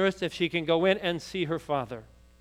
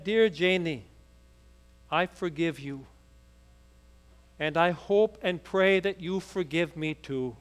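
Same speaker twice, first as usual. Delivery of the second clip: tender letter. Acted. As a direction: read it like a dying man's last note, sinking away. Reading dying father's note.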